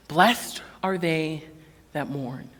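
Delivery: slow and hushed, reverent; slow solemn scripture. Acted. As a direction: read it like holy words.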